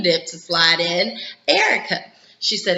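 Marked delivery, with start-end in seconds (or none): 1.5-2.0 high-pitched retold summons; acted call-out, pitched high; calling a name. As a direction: lift the name right up, as if calling her over. Acting a schemer calling on Erica.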